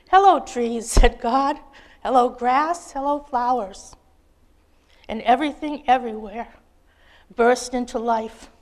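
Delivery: put-on lively children's storybook read-aloud. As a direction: read it like a picture book at bedtime, bright and expressive. Reads children's story to congregation.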